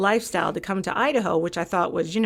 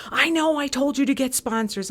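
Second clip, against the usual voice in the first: higher, mildly exasperated retort; imitating exasperated boss; 6 semitones higher than usual. Boss retorting over the phone, mock exasperated. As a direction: toss it back, half-mocking. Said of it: "she was just so upset".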